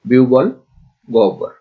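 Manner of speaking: বিহ্বল as "biu-bol", গহ্বর with a vowel glide for h; careful list reading of বিহ্বল, গহ্বর; model pronunciation. Shown as a demonstration. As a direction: say বিহ্বল and গহ্বর without a heard h. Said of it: "ঠিক একইভাবে".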